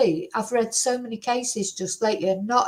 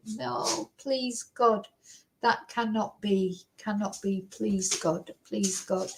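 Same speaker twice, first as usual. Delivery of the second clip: horrified pleading; 7 dB quieter, slower than usual. Real, not acted. Pleading in horror.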